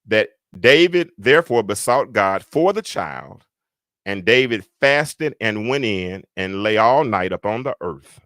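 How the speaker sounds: measured reading of a Bible verse; scripture reading. Real, not acted. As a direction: read the verse out in deliberate phrases. Reads the verse aloud.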